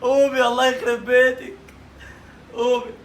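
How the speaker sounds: slow, soft scolding wake-up call; exasperated mom scolding. Acted. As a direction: grumble at her to get up. Older relative waking her in dark.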